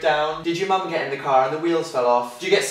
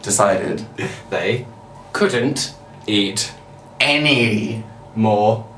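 overacted anime dub; 5 semitones lower, slower than usual. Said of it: "could you do that impression of a Japanese anime character".

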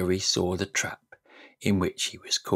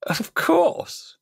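high, breathy, gloating; hateful smile. Acted. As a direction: gloat under your breath. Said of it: "with his hateful smile".

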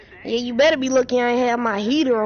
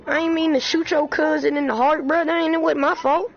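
raised whiny apology; mock apology; 5 semitones higher than usual. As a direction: plead innocence in a raised voice.

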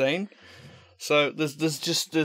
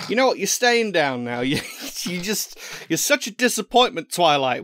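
raised mock-annoyed scolding of a toy; 3 semitones higher, 4 dB louder than usual. Vlogger telling off his toy pony, mock annoyed. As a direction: tell off the toy pony like a naughty child.

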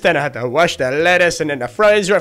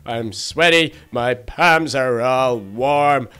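exhausted; 3 semitones lower, much slower than usual. Real, not acted. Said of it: "I'm so tired".

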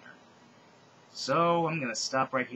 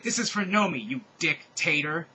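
higher, louder vengeful cry; revenge yell; 3 semitones higher, 5 dB louder than usual. Acted. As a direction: yell it as you strike. Stabbing Hitler, revenge.

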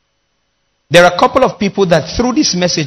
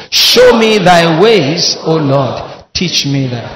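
read louder; 3 semitones lower, slower than usual. Real, not acted.

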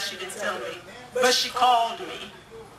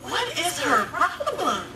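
laughing; 4 semitones higher, slower than usual. Retold or imitated. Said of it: "and I'm like".

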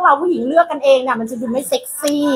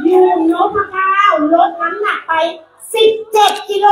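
presenter announcement; 4 semitones higher than usual. Acted. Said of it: "ขอพรีเซนต์คนนี้นิดนึง".

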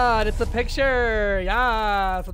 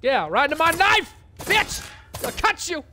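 mock threat; 6 semitones higher than usual. Threatening game enemy back.

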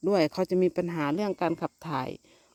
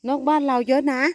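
high, louder sing-song coo; calling the kittens; 7 semitones higher, 6 dB louder than usual. Real, not acted. Mother calling her kittens about the birds, high loud coo. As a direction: croon to hush the kittens.

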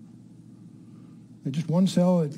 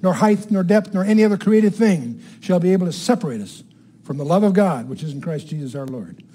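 solemn Bible reading, each phrase weighed; scripture reading. Acted. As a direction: read it out like proclaiming from the pulpit. Reads Romans aloud from pulpit.

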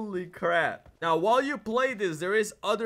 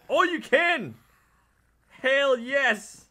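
excited; 4 semitones higher, much slower than usual. Real, not acted. Finding he can punch zombies.

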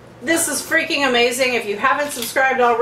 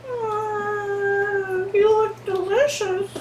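seductive; 11 semitones higher, much slower than usual. Pretend. Talking seductively to the food.

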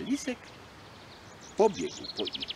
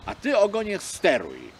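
bold fox; 7 semitones higher, 7 dB louder than usual. Acted. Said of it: "mówi odważnie".

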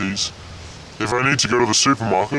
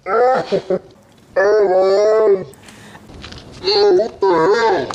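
louder, higher startled cry; shocked; 11 semitones higher, 6 dB louder, much slower than usual. Acted. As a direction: recoil in shock at a strange voice. Shocked reaction to his voice.

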